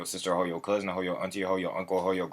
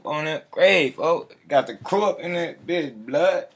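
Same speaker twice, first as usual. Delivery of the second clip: hyped shout-out; 7 semitones higher, 4 dB louder than usual. Real, not acted. Hyping crew shout-outs on stream.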